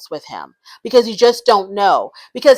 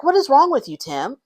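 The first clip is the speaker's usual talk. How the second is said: exasperated disbelief; 7 semitones higher than usual. Retold or imitated. Exasperated at Tim's behaviour.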